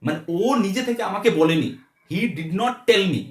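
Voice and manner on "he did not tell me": slow dictation. Shown as a demonstration. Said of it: "slow teaching model sentence".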